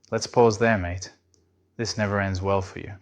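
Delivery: put-on a light, overly polite British accent, calm and measured. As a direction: play a courteous British AI gently stopping you, with a hint of a British accent. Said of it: "in a calm, overly polite British accent".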